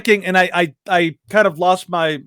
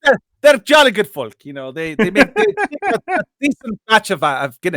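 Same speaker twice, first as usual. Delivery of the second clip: put-on Irish accent; 3 semitones higher than usual. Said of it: "You're American".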